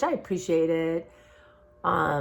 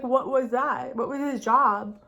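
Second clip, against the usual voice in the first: surprised question; 6 semitones higher, slower than usual. Retold or imitated. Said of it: "I was like".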